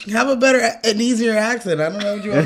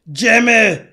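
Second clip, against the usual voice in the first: put-on Arnold accent; 3 semitones higher, 5 dB louder than usual. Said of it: "every time Howard says".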